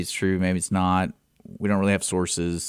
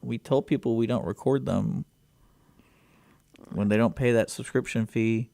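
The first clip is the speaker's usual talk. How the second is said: sheepish company rep; 5 semitones higher than usual. Retold or imitated. Imagined company reply voice.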